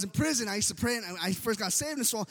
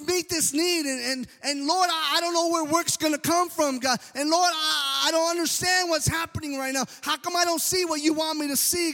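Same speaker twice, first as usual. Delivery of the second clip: raised, pleading complaint to God; whining prayer; 3 semitones higher than usual. Retold or imitated. Preacher reenacting his own prison prayers with a mild whine. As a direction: whine it up at the Lord, mock-pitiful. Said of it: "And I whine, I said".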